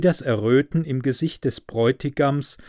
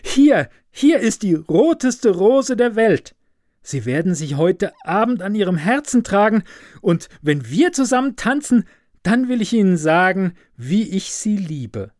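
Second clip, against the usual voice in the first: high, fast, eager calling; eager student; 6 semitones higher, 4 dB louder than usual. A narrator's reading. Student offering the rose to the professor's daughter, high and eager. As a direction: rush to claim the promised dance. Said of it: "rief der Student".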